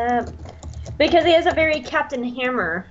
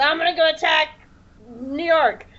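higher-pitched monster announcing its plan; mock monster; 6 semitones higher than usual. Retelling Cloverfield woken in its lair, mock monster. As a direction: playfully voice a roused monster. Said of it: "he was just like".

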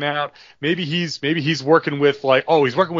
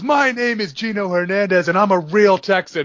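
higher, proud declaration; Gino Hernandez; 7 semitones higher than usual. Retold or imitated. Gino answers JBL on Thunder, proud and higher. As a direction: stand tall and claim being a real Texan. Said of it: "And he goes".

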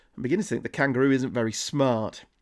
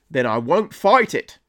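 mock Australian declaration; bad Australian accent. Villain declaring his turn to crime, badly faked Australian accent. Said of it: "best Australian accent you're ever gonna listen to".

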